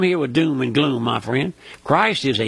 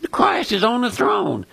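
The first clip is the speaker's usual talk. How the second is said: proclaiming; 4 semitones higher than usual. Real, not acted. Preaching climax.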